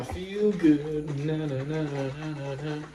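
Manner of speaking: high, slow, far-off soul shout of I feel good; belting a singer's hit with na na na; impression of a singer. Husband hamming up a singer on a livestream, belting. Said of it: "Like James Brown".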